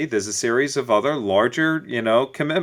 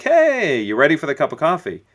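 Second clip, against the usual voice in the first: bright, much higher, louder breezy hello that dismisses the lateness; breezy late greeting; 4 semitones higher, 4 dB louder than usual. Retold or imitated. Late guy breezily greets his waiting date, carefree. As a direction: swing in all casual, as if you're not twenty minutes late.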